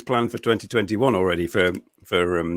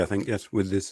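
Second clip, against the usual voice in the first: talking while crunching snacks; words around a crunchy bite; crunching chicken pigskin; 8 dB quieter than usual. Real, not acted. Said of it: "Excuse me, I'm crunching chicken pigskin".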